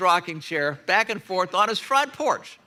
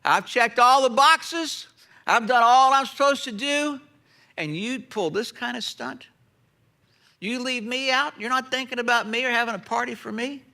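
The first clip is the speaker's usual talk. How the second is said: outraged brother; 3 semitones higher than usual. Retold or imitated. Older brother protesting to father, outraged. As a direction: spit out the grievance. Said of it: "You hear his outrage?".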